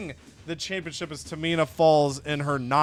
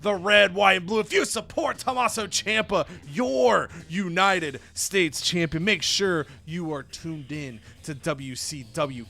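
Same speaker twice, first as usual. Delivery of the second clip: rousing wrestler's promo, stretched words; rally the fans like a patriotic champion; big opening, settling into the plug; hyped patriotic promo; 3 semitones higher than usual. Acted. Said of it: "and he says".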